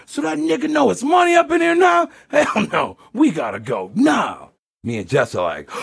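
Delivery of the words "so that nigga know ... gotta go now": mock the pimp screaming to leave now. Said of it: "Not a pimp is screaming".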